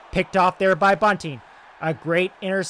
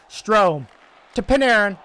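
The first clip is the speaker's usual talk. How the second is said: excited rush call; 4 semitones higher, 5 dB louder than usual. Acted. Two-on-one rush.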